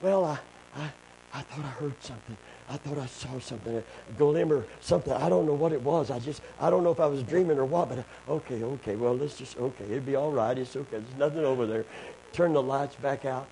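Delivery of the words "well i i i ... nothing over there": put-on hushed, fast, faltering girl excusing herself; shaken girl. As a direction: mumble it like a scared kid backing down. Frightened girl explains in dark.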